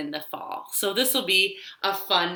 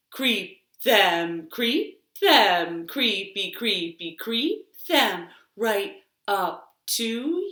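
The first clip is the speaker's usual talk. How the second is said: finger-play rhyme; 3 semitones higher, much slower than usual. Acted. Storytime host leading children's finger rhyme, playful singsong. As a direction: lead the toddlers through the rhyme.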